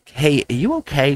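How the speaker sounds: gently imitating a sweet, concerned lady; super sweet. Sweet teacher from across the hall checks on a sick colleague, super sweet. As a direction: check in kindly, question lilting up. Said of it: "Super sweet lady".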